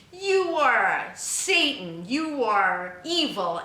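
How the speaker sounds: mock-fanatical slow accusing shout; fanatic's accusation. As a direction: hurl the words like a zealot condemning. Voicing a terrorist's accusation.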